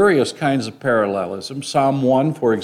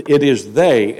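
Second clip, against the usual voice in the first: "they" punched louder at the end of "it is they"; stress on they; 5 dB louder than usual. Shown as a demonstration. Preacher demonstrating the emphatic pronoun "they". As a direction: hit "they" hard. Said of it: "the pronoun they is emphatic".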